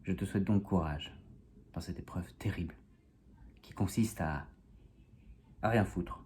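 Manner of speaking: measured spoken verse with pauses; poem recitation. Acted. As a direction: recite with mock solemnity, pausing before the payoff. Recites own comic poem.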